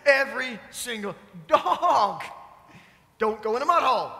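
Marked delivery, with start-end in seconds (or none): 1.5-4.1 half-laughing, fed-up yell at the dog; exasperated scold. Retold or imitated. Owners fed up with the dog, laughing mock scold. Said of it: "we get all upset".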